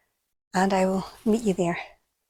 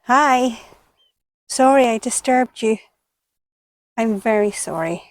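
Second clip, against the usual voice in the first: calling to a toad; 6 dB louder than usual. Real, not acted. Apologising loudly to the toad.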